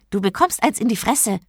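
threatening. A narrator's reading. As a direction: warn him off angrily. Genie threatens the man. (gereizt drohend)

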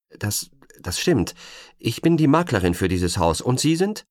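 nervous. Acted. Nervous agent facing stranger.

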